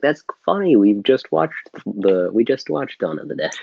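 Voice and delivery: high, bright retold delight at a coincidence; amused surprise. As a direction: squeal it like a fun discovery. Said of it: "I was like".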